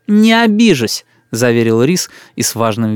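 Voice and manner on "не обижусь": put-on slow, higher sulky child; stubborn boy. A narrator's reading. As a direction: dig in like a spoiled kid. Boy assures father. (упрямый мальчишка)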